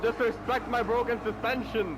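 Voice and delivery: high, slow, indignant wail; drawn-out protest. Real, not acted. Racer overtaken with broken suspension, wailing protest. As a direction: stretch out the complaint high.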